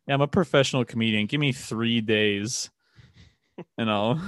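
exaggerated cartoon intonation; goofy, over-the-top smug comedian; cartoon character voice. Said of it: "Sound like a cartoon character".

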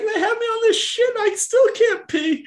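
put-on high, raspy old man griping; Herbert voice. Veteran patient complaining to his therapist, raspy high old man voice. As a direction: complain like a cranky old codger.

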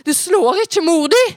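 high, loud warning cry; urgent, escalated protest at high pitch; alarmed shout. Acted. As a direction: cry out to stop the blow. Mother shields herself, warning escalates.

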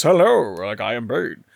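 mock well-spoken RP British greeting; Bane in RP British. Shown as a demonstration. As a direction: do a genteel RP British villain. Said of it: "And instead you're hearing this".

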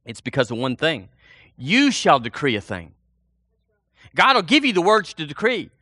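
usual speaking voice

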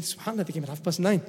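quiet aside. Retold or imitated. Father's quiet remark.

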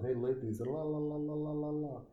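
high, held lecherous la-la-la; hammed-up leering call, rising high; lip-licking creep. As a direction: imitate a creep flapping his tongue. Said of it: "he's licking his lips".

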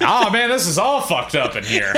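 high, put-on New York workman; hammed-up New York accent. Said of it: "like, New Yorkian accent".

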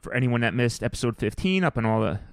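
gravelly, rough voice after a late night; tired gravelly voice. Real, not acted. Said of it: "you sound gravelly today".

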